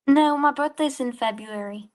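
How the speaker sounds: high squeaky fake British voice; put-on British accent. Real, not acted. Troll caller answers the streamer in a fake British accent. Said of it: "trying to do a British accent".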